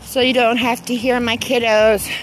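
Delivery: out of breath from walking; breathless, gasping between phrases. Real, not acted. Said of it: "I'm out of breath 'cause I'm taking my walk".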